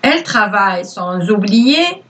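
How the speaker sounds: slow, clear dictation voice; dictating. Acted. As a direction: read it out word by word for pupils. Teacher dictates to pupils.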